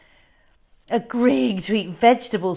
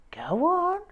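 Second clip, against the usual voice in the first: slowly; 9 semitones higher than usual. A narrator's reading. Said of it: "said Mum, slowly".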